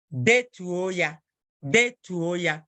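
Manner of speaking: Detuo ya said slowly, each syllable clear; slow it right down so they can copy; slow model phrase. Shown as a demonstration. Teacher to class, slow clear Igbo model. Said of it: "teacher models phrase slowly".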